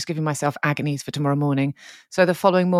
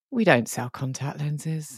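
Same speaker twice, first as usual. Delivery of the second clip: plain, matter-of-fact, just-stating tone; 6 dB quieter than usual. Retelling what a pharmacy worker said: imitating a pharmacist. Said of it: "head to one side, and she went".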